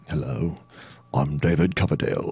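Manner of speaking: lightly voiced rock singer introducing himself; impression of a rock singer. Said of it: "let me do a rock singer".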